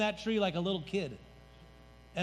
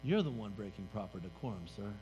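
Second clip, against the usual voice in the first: Jesus rebuking; 8 semitones lower, 6 dB quieter than usual. Acted. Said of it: "And Jesus turned to him and said".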